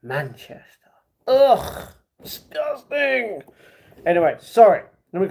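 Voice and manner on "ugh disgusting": high-pitched, drawn-out disgust; stretched-out squeal of disgust; mock disgust. Mock disgust at hearing Manchester.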